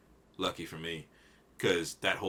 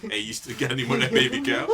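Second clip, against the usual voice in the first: eager buyer voice; 5 semitones higher, 8 dB louder, faster than usual. Pretend. Asking dealer for more meat.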